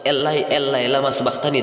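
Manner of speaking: "Elai, Elai" with long falling final syllables; measured Hebrew reading of "lama sabachthani"; Hebrew pronunciation. Shown as a demonstration. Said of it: "dalam Ibrani".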